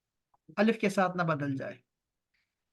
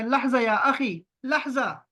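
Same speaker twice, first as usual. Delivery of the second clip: slow, a touch higher, drawn-out "لحظہ یا اخی"; asking a brother to wait; 4 semitones higher, slower than usual. Shown as a demonstration. Teacher shows students how to ask a friend to wait, slow and a little higher. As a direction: gently hold someone off with a drawn-out "لحظہ". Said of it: "تو آپ نے کہنا ہے".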